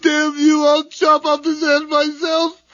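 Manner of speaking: crying, furious damnation; anguished curse. Acted. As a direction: spit it at him through tears. Bob curses his brother.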